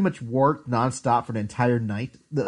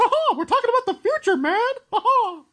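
very high, cartoonish voice with giggling. Mocking a co-host's Shaggy attempt: Mickey Mouse voice. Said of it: "when did Mickey Mouse come in".

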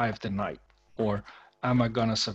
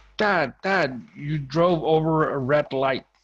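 play-acted urgent child's yell, high and loud; 5 semitones higher, 6 dB louder than usual. Retelling how a son in the back seat reacted: imitating a son screaming. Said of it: "he was screaming".

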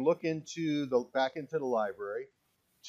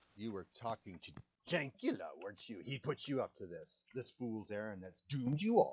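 hushed, ghoulish, horrible bestial hag voice; 3 semitones lower, 9 dB quieter than usual. A game master speaks as a hag questioning the party: horrible hag voice. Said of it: "They look like bestial hags. ... Your voice is horrible to listen to".

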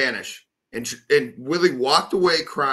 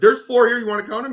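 furious, confrontational, raised and pitched-up voice; 8 semitones higher, 5 dB louder than usual. Retelling an argument with a guy over towels, quoting himself: retelling getting super mad. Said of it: "I went and I got super mad".

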